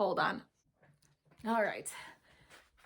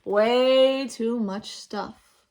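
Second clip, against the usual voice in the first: slow, breathy whisper; a mother whispering a gentle no; 3 semitones higher, 9 dB louder, much slower than usual. Acted. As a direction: whisper it slowly and firmly. Mother shakes head, packs bag.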